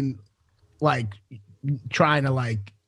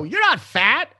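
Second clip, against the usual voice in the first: higher-pitched, insistent "not fat"; emphatic reassurance; 6 semitones higher, slower than usual. Retold or imitated. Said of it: "have to say it with that emphasis".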